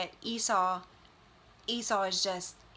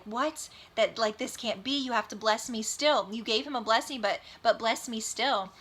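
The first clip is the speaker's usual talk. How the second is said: mildly freaked-out protest, pitched up at the start; freaking out. Retold or imitated. Esau pleads with his father after losing the blessing, mildly freaking out. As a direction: act out a touch of disbelieving upset. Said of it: "Then Esau freaks out, like, freaks out".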